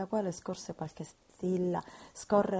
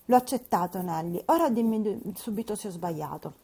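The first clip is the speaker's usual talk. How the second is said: put-on louder, urgent girlish demand; Catherine insisting; 6 dB louder than usual. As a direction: press for an answer.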